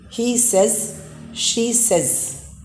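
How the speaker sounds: SAYS as "sez", short e; correct says. Shown as a demonstration. Teacher models he says, she says, with short "sez". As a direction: say "says" to rhyme with "fez". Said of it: "pronounce it as says".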